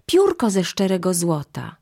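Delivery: put-on high-pitched, eager children's cries; calling out excitedly. A narrator's reading. Children run to mother with news, calling excitedly. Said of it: "wołając".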